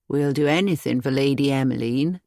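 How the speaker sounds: a plain country cottager reporting his errand; old cottager. Acted. Narrator voices the old cottager.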